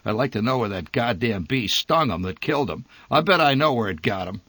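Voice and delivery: mock her source with derision; a hint of derisive scoffing father; derisive snort. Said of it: "my father snorted in derision".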